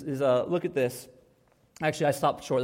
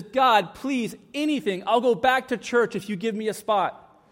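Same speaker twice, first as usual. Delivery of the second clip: pleading; 4 semitones higher than usual. Acted. Man pleading harder in joke.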